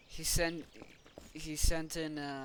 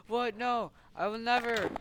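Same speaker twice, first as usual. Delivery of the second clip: higher, louder play-acted protest; mock indignant refusal; 7 semitones higher, 6 dB louder than usual. Figure refusing in a toy battle, mock indignant. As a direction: blurt it out in pretend outrage.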